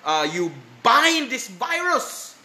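imitating an earnest petitioner; imitated prayer. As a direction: open loud on the address, then plead upward. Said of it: "Some people would pray".

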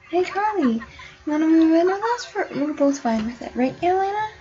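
high, eager call to Carly. Pretend. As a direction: call out brightly to the sim. Calling out to sim Carly.

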